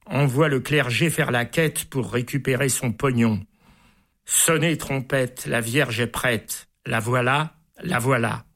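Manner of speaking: lively reading of a comic poem aloud; amused poem recital. A narrator's reading. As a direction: read it like a storyteller savouring each line. Host reads a long comic poem.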